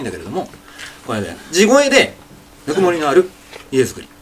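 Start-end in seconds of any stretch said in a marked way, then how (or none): 2.7-4.1 teacher shows only the phrasing in his natural voice; Morimoto Leo manner. Shown as a demonstration. 地声で投げっぱなしの言い方. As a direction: own voice, left-hanging Morimoto Leo phrasing. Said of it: "こういう投げっぱなした感じで".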